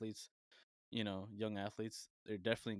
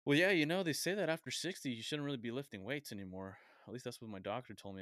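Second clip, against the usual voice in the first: put-on older gentleman; 3 semitones higher, 4 dB louder than usual. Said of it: "He's just like".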